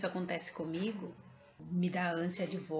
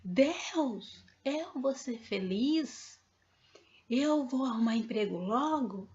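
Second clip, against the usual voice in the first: retold cry out; 4 semitones higher, 3 dB louder, slower than usual. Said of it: "eu gritei".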